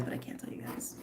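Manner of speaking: breathy whisper; whispered secret. Real, not acted. Teasing viewers with a secret, whispered. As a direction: drop to a whisper.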